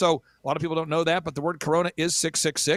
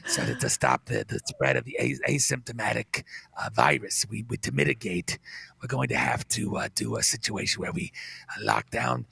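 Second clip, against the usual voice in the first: very low, droning, detached expert; Fauci impression; 8 semitones lower than usual. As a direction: drone on flatly with long uhs. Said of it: "but he's going".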